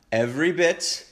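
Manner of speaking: high, laughing and thrilled; giggly excitement. Real, not acted. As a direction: squeal with delight over the cake. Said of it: "I'm so excited".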